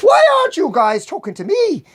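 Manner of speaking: acted mild upset; mildly upset. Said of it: "getting kind of upset".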